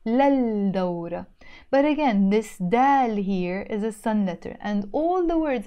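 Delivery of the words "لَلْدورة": lal-dawra with the written L held; للدورة as written. Shown as a demonstration. Teacher reads out the spelling, L pronounced in للدورة. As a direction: sound the L before dawra. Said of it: "in Arabic we wrote".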